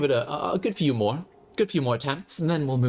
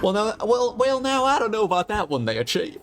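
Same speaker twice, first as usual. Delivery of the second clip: high-pitched put-on voice; high, mock-doubtful objection to the chief; put-on comic character; 10 semitones higher, 3 dB louder than usual. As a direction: pitch it way up, playfully disapproving.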